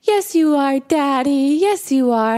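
high mock-tearful insistence; crying little girl. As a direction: imitate an upset child contradicting Daddy. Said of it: "she's crying and she's crying".

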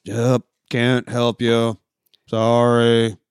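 slow, drawn-out brush-off with a touch of defeat; lightly voiced beaten-down desk worker; mock lifeless apology; sullen, dead inside. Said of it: "everything about him looks sullen and dead inside".

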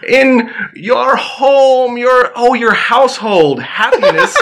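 high, drawn-out mock-French groping for words; French accent. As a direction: imitate a French Mountie struggling with English. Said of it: "Mounties that speak French".

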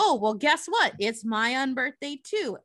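mock triumphant reveal; excited reveal. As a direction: announce it like a happy surprise. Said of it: "Alice is like".

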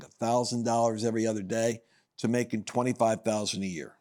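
ordinary talk, nothing marked

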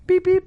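short spoken timer beeps; imitated oven beeps. Acting out a friend setting the oven, imitated beeps. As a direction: mimic the oven buttons.

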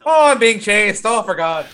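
high-pitched, hammed-up Irish lament; mock Irish accent. Co-host mocking the chased girl's line, mock Irish accent. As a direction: wail it as a stage Irish caricature. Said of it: "I'm taking out my Irish accent".

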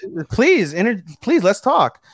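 high, pleading imitation; mock eager invitation. Retelling bathers asking May to talk, in high, eager mimicry. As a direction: coax them over in a put-on high voice. Voicing girls calling to eavesdroppers.

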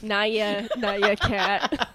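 laughing cat noise "naya"; cat imitation. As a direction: play a cute cartoon cat. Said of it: "Emma's doing a little".

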